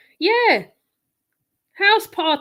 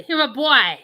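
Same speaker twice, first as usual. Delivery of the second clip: light Jamaican patois, a bit louder; Jamaican accent; 5 dB louder than usual. Retold or imitated. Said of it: "that's how the Jamaicans say".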